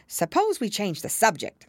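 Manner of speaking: bored, lightly yawny interruption; yawning. A narrator's reading. March Hare changing the subject, yawning. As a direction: interrupt with a touch of weariness.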